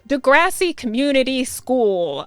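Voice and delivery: reading a search term aloud; said aloud while typing. A narrator's reading. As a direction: say the name out loud as you type it. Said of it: "I say out loud while typing".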